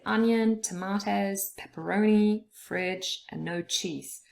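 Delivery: "onion", "tomatoes", "pepperoni", "fridge", "no cheese" each its own beat; firm weight on "onion" and "pepperoni", settling on "no cheese"; stressed words listed. Shown as a demonstration. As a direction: list "onion" to "no cheese" one stressed word at a time. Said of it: "the words that are stressed".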